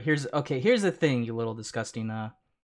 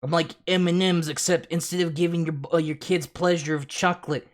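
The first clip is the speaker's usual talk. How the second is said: mocking impersonation; 3 semitones higher than usual. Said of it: "but his point is".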